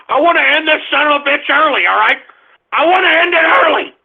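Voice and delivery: real, rising exasperation; angry and at the end of patience; fed-up outburst. Real, not acted. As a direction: threaten to quit, pitch climbing. Fed up, threatens ending broadcast.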